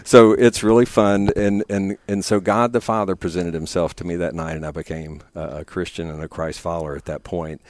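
teary, pushing through; emotional laugh through tears; after crying. Real, not acted. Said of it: "sorry, get a little teary here".

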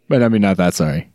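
talking through a yawn; stretched yawn mid-sentence. Real, not acted. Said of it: "That's a big yawn".

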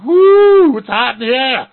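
very high, loud, overheated yelp; boiling frog. Pretend. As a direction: yelp like a frog in hot water. Voicing frogs in boiling water.

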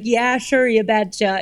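lightly put-on Minnesotan accent. Guest sending up the Minnesotan accent for Southern hosts, lightly exaggerated Minnesotan. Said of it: "no one listens to a Minnesotan accent".

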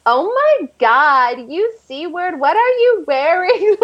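drawn-out bitchy outburst, rising high; mock-bitchy, pitch climbing as it goes. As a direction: act out a bitchy line from a script. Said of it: "acting so bitchy".

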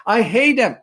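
said through a small laugh, half joking. Retold or imitated. Retelling his prayer to God after his brother's killing, laughing. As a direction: laugh while admitting the grudge.

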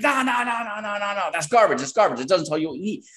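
high, brushing-off imitation of the client; mock dismissive client. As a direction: wave it away as garbage.

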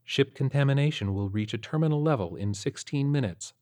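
flat, even computer voice; monotone computer voice. Acted. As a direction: read it like a flat ship computer. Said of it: "the monotone voice responded".

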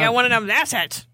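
put-on "accents" mangled into "AT-chets"; butchered word. Teasing friends, "accents" deliberately mangled as "atchets". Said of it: "Make it real butchered".

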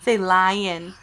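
laughing through the words. Real, not acted. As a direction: coax it while giggling. Coaxing toddler, laughing.

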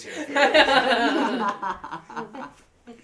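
slow laughing. Real, not acted.

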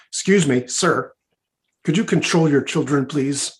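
lightly acted exasperated request; annoyed passenger. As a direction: firmly ask a stranger to rein it in. Annoyed passenger confronts the father.

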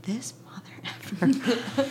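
slow, voiceless whisper under the breath; whispered curse. Retold or imitated. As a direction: whisper the insult to yourself, drawn out. Retelling a muttered aside at him.

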